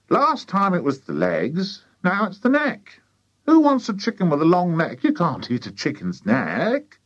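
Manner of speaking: high, nagging wife; complaining farmer's wife. A narrator's reading. Wife scorning the long-necked chicken, high complaint.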